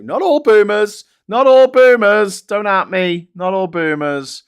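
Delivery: loud, high, drawn-out "not all boomers"; mock disclaimer. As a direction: ham up the disclaimer.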